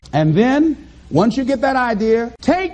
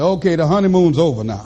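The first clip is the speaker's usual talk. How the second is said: much lower, gruff-toned voice of hard life; a much lower voice for life ending the good times; life as a bully; 10 semitones lower than usual. Acted. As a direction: play life as the tough guy who just showed up. Voicing life as a tough character.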